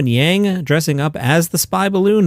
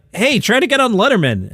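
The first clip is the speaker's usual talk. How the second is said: high-pitched pushy quote; mock eager advice; 8 semitones higher than usual. Host quoting a veteran comic advising youngsters, mock eager. Acts out giving outdated advice.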